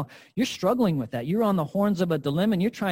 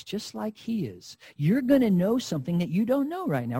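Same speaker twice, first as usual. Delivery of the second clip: devil's tempting voice; 2 semitones lower than usual. Acted. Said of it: "what the devil's voice sounds like".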